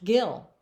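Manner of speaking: "gill" with a hard g, rhyming with fill, like a fish's gill; pronouncing gill. Shown as a demonstration. Counselor teaching fifth graders her name, clear "gill". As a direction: land "gill" clearly and slowly. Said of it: "and it's pronounced".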